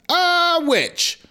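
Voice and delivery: high, frightened cry; Gretel's scream. Acted. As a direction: shriek it like a terrified girl. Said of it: "Gretel screamed".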